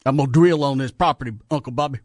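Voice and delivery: lightly put-on, overdone Texas accent; bad Texas accent. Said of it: "sounds almost the worst of all of them as far as the accents".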